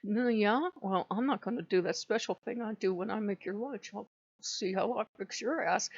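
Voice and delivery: mock passive-aggressive spouse, understated. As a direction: quietly grumble a petty threat to your partner. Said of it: "They will do passive aggressive shit".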